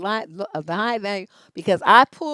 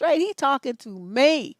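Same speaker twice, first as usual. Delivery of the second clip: usual speaking voice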